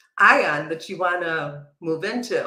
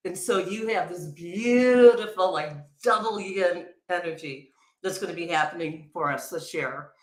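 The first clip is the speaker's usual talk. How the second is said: talking while chewing a carrot; words around a bite of food; mouth full. Real, not acted. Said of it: "I'm still chewing my carrot".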